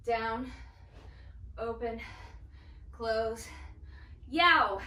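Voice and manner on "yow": strained yelp. Real, not acted. Exclaims during burning exercise.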